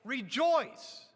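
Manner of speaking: rebuking preacher barking rejoice. Shown as a demonstration. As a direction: scold them into joy with one word. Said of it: "in a rebuking sense saying".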